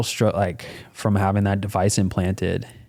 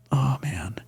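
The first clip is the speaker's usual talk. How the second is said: soft whispered letdown; whispered dismay; 7 dB quieter than usual. Retold or imitated. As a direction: sigh it out under your breath. Dejected inner reaction.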